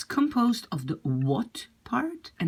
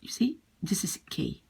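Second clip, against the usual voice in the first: soft unvoiced whisper; whispered aside; 6 dB quieter than usual. Real, not acted. Teacher whispering that the letters sound like K. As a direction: whisper the point to the class.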